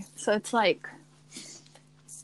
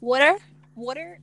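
put-on questioning, Italian teacher's accent; 3 semitones higher than usual. Imitating the teacher reading out the name, Italian accent. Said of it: "my Italian teacher's like".

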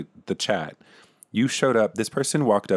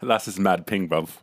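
put-on playful Manchester lad accent. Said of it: "in Manchester".

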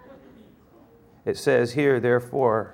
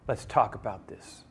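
pleading gently; 4 semitones lower, 7 dB quieter than usual. Acted. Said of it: "he starts to plead with him".

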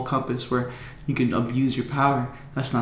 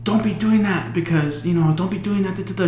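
higher-pitched imitation of a telling-off; a hint of nagging reprimand; lightly voiced scolding lady; 5 semitones higher than usual. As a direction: lightly mimic a woman scolding kids. Janitor lady scolds the boys.

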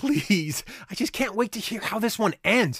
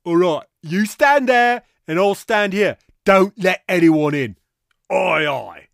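gruff soldier; 8 dB louder than usual. Acted. Voicing Roman guards.

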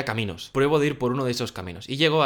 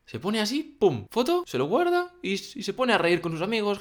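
mock giggling old man; 9 semitones higher than usual. Mimics old man snapping photo.

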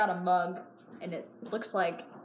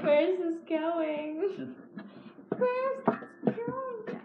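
yüksek perde; 8 semitones higher, much slower than usual. Pretend. Playful sing-song wondering aside.

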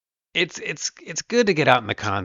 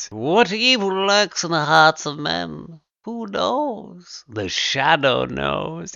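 slow, loud, much higher ominous radio narrator; The Shadow radio voice; 6 semitones higher, 5 dB louder, much slower than usual. Retold or imitated. Dad watching his son's engineer talk, hamming up The Shadow. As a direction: ham up the old radio Shadow line.

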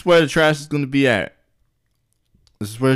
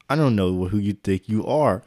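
lower, puffed-up boss voice; bass in voice; 6 semitones lower, 5 dB quieter than usual. Acted. Boss challenges the father at dinner, deep-voiced. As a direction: put some bass in it to pull rank. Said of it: "all that bass in your voice".

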